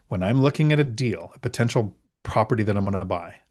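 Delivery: slow, emphatic phrases with pauses between; deliberately slow. Shown as a demonstration. Investor telling doubters his deal rule, slowly and deliberately. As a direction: spell it out piece by piece, slowly. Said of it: "I'm gonna say it really slow".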